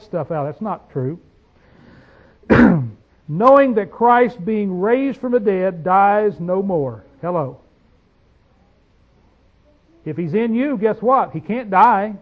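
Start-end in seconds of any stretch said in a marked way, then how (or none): 3.3-7.0 very slow, deliberate reading of the verse; slow scripture reading. Acted. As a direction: stretch each phrase out solemnly. Reading verse nine slowly.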